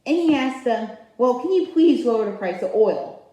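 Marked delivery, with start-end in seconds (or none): 1.2-3.3 lightly mocking, pleading request; a hint of pleading in a mock quote; begging child. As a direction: imitate a child begging, mildly. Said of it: "Like a begging child for candy".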